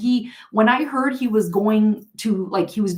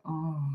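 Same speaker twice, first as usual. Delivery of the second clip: a soft, breathy mock "oh" of pleasure; a hushed imitation of his contented sigh; imitated creepy sigh; 5 semitones lower, 11 dB quieter than usual. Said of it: "like this".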